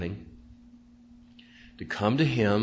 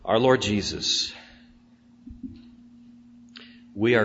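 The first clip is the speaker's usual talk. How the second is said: prayer; 2 semitones lower than usual. Real, not acted. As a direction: pray gently over the congregation. Closing prayer.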